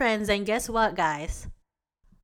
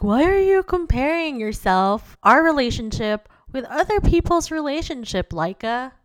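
put-on irritated boyfriend; 4 semitones higher than usual. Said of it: "He's like".

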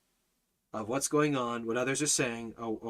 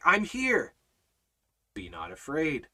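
reassuring Almighty Father. Acted. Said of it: "What does our, our Almighty Father say?".

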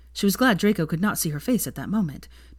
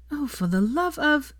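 high, slow exasperated groan; 10 semitones higher, slower than usual. Acted. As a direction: drag it out in despair. Exasperated outburst.

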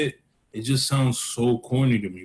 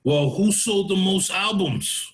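mock rock star taunt; 6 semitones higher, slower than usual. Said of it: "turn around and say".

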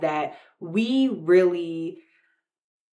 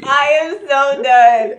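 exasperated; 8 semitones higher, 8 dB louder, slower than usual. Real, not acted. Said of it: "It worked, though".

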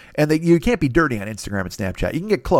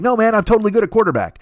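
mock protesting kid; 8 semitones higher than usual. Acted kid insisting he can play.

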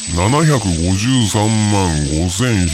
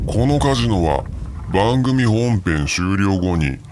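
villain voice. Acted. Casino creator villain persona.

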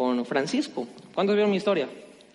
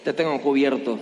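reassuring; 3 semitones lower than usual. Shown as a demonstration. Pastor modelling words for the neighbor, low gentle reassurance. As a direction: tell your neighbor gently you've got them. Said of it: "volteate con tu vecino y dile".

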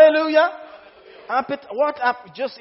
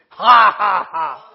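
forced laugh; 9 dB louder, slower than usual. Shown as a demonstration. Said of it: "preacher laughs".

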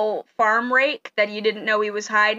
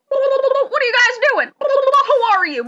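high, slow put-on farmer voice; octopus farmer voice; 6 dB louder, slower than usual. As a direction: drawl it out like a strange farmer. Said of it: "And he goes".

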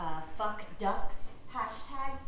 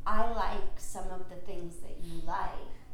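careful deliberate speech; 4 dB louder, slower than usual. Acted. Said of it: "you fixed the way you talk".

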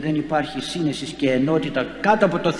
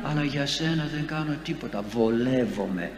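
mocking greedy priest; 2 semitones higher than usual. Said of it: "Σου λέω".

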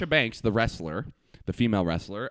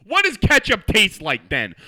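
loud, slow, exasperated question; imitating annoyed sister; 7 semitones higher, 8 dB louder, slower than usual. Sister scolding him about ketchup, mock angry. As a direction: ask it like talking to a dumb person. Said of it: "like, angry, talking to a dumb person".

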